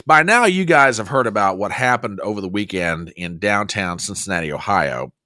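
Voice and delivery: low, serious news setup. Real, not acted. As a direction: drop the joking and turn sober. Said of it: "getting a little more serious".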